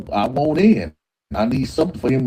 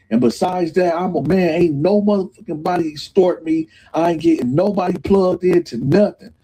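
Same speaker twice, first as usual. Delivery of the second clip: raised, high call to the whole tier; defiant announcement; 6 semitones higher than usual. Retold or imitated. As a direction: stand up on the bar and lay down the law. Doug shouting from the bar.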